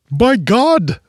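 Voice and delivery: high, hammed-up old-timer voice; a deliberately bad yokel put-on; bad old-timer accent. Bunko gasping at dead men, hammed-up bad accent. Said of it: "that bad accent".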